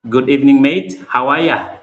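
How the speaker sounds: a playful try at an Australian accent, mate stretched up high; attempted Aussie accent. Shown as a demonstration. Greeting Mister Michael, the Australian, in a lightly attempted Aussie accent. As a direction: greet him like a friendly Aussie, lightly put on. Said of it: "That's an Australia accent".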